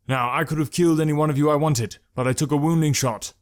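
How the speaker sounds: calling out a warning across the clearing; loud, steady warning to the bandits. Acted. Malik warns the highwaymen, calling out firmly. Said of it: "Malik called to them".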